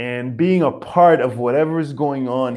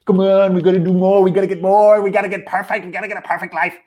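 nudging inner voice; 5 semitones higher, 4 dB louder, faster than usual. Retold or imitated. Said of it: "twenty percent is like, it's nudging on me".

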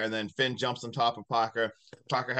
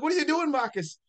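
shocked; 12 semitones higher than usual. Retold or imitated. Retelling shocked question.

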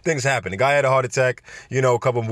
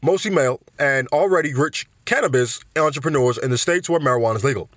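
put-on Bernie accent; 3 semitones higher than usual. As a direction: read the campaign email as a fired-up Bernie. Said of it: "I can't even do the accent".

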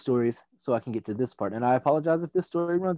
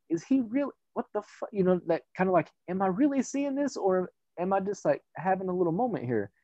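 higher, hushed mock disbelief; stunned clerk; 4 semitones higher than usual. Clerk seeing a clown-masked customer, hushed mock disbelief. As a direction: voice a clerk doubting her own eyes.

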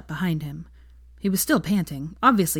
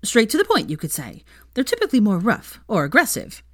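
excited gossip; 4 semitones higher, 4 dB louder than usual. Acted.

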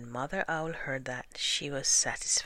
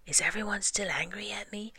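high, quick insect whine; small pitched-up mosquito voice; whining mosquito; 6 semitones higher, faster than usual. A narrator's reading. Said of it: "whining in people's ears".

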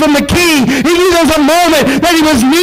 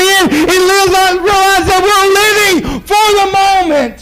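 rising preacher's cadence, building to a cry; fervent revival preaching; 3 semitones higher than usual. Acted. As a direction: preach it, climbing to full force.

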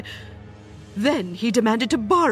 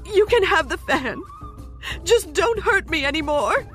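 much higher, begging in pain; pleading cry; 9 semitones higher than usual. Acted. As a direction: beg him to stop hurting you. Immortal gives in, pleading.

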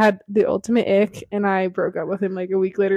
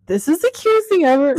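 retold gushing; 7 semitones higher than usual. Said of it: "but I was like".

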